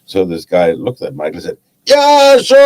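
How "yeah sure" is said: a hammed-up Black Country fisherman, much higher and louder; German speaker doing a clumsy Black Country accent; bad Black Country accent. Fisherman agrees to explain, in a mock Black Country accent. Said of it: "That's gotta be the worst Black Country accent I've heard".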